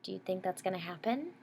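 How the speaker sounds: whispered teaser to the listeners; hushed storyteller question; suspenseful whisper. Acted. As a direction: breathe it as a secret. Aside to the child listeners.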